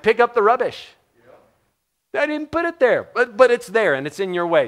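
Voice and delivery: high, loud preaching rebuke; forceful rebuke. Real, not acted. Preacher scolding snowflakes, loud and high. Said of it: "preaching snowflake rebuke".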